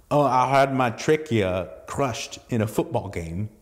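lightly voiced strained throat voice, kindly; a hint of a crushed-throat rasp; kind teen with crushed trachea. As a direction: imitate a damaged voice gently. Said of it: "And he goes, with a kind look".

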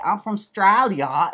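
put-on a poor Australian accent that slides toward cockney; bad Australian accent. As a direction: try an Australian accent and miss. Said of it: "if I try and do".

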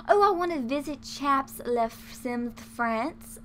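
slow, badly faked French accent; hammed-up French accent, drawn out; awful French accent. Player reading out a wish to visit France, awful French accent. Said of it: "my awful French accent".

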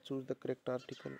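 each word read out slowly and clearly; slow dictation. Shown as a demonstration. Teacher reading the question slowly to the class.

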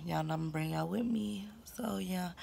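soft, unvoiced quick whisper. Real, not acted. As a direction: lean in and whisper it. Whispered promise to viewers.

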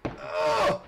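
squeaky playful narration of the moves; playful sound effects. Pretend. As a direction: make silly cartoon noises as you spin. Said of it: "little propeller action".

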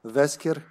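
Vesker with a V for Wesker's W; Serbian pronunciation. Shown as a demonstration. Showing how Wesker sounds in Serbian, Vesker with initial V. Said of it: "how would we say in Serbian".

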